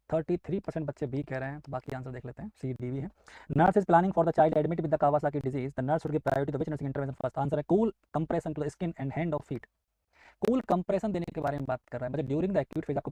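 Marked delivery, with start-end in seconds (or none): 3.5-9.7 slow, deliberate exam-question reading. Shown as a demonstration. Teacher to students reading the quiz, slowly and deliberately. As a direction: read each word out slowly for the class.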